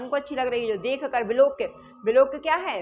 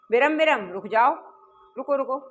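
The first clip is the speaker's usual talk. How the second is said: mildly cross, louder order to stop; a touch of acted anger, raised voice; slightly annoyed; 5 dB louder than usual. Mallika stopping her husband at the laddus, mildly annoyed. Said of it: "थोड़ा सा नाराज type के होके".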